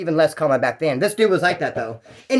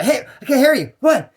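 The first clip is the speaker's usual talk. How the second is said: higher, louder frustrated inmate on the phone; phone guy complaining; 8 semitones higher, 4 dB louder than usual. Retold or imitated. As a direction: play the annoyed guy yelling into the phone. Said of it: "He's like".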